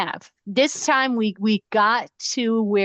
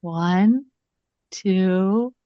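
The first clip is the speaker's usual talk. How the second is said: giggly late night call; slower than usual. Pretend. Count to three hang-up.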